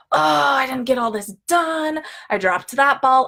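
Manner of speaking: lightly acted overwhelmed groaning; dramatic self-reproach. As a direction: voice a stressed inner complaint. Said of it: "these are crazy dramatic thoughts".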